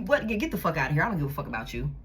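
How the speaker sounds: imitating a cold dismissal, pitched low; dismissive scorn. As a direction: spit it out low and contemptuous. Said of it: "making it seem like you".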